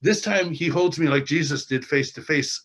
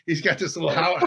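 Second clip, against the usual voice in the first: ordinary talk, nothing marked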